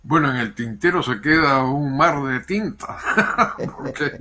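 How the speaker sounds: laughing it off as he speaks; amused, laughing reply. Real, not acted. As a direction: chuckle through the line. Laughing at the unfinished topic.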